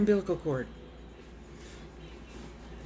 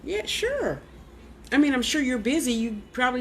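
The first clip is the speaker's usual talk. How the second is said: sarcastic; 4 semitones higher than usual. Real, not acted. Sarcastic reply to spirit.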